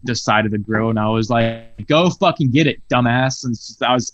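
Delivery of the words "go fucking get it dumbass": retold angry shout, a bit higher; blew up. Retelling blowing up at the grill cook. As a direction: snap it at the cook, half-yelled. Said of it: "I blew the fuck up".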